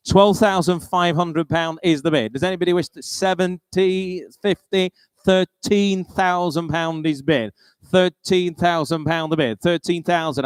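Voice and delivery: brisk auctioneer calling bids. Acted. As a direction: call the bids like a sale-room auctioneer.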